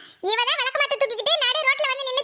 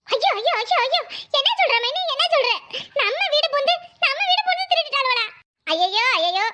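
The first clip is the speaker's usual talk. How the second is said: fake lament. The guilty sister-in-law fakes shock, hammed-up wail. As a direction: put on mock outrage over the theft.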